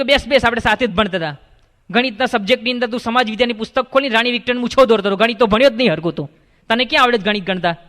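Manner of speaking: put-on a quick scoffing jab at an old classmate; fast mocking taunt. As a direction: rattle off the teasing quickly. Third friend mocks the counter.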